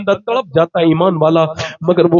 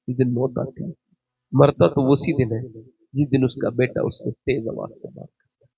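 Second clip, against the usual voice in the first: lower, much softer heartfelt preaching; soft tender preaching; 3 semitones lower, 6 dB quieter than usual. Acted. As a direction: speak it softly as if near tears. Soft emotional sermon. (نرم اور دھیمی جذباتی خطابت)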